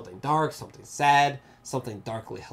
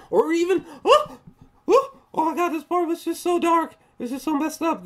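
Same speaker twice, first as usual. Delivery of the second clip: high, loud cry of dismay; distressed outburst; 4 dB louder than usual. Real, not acted. Reviewer recalling a part that was just so dark, appalled outburst. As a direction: wail it, appalled and far above normal pitch. Upset reaction to a dark scene.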